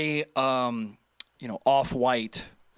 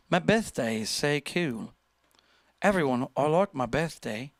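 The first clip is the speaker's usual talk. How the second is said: mock posh British. Mimicking a viewer's video in posh British accent. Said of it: "you sound like, almost like posh British".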